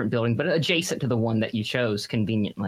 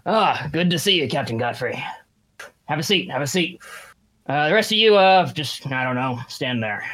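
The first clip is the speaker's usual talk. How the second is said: gruff colonel. Acted. GM voices the colonel.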